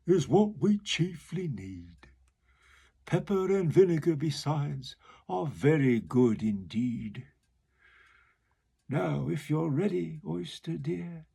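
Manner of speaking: the walrus relishing the feast; hungry walrus. Acted. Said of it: "the walrus said".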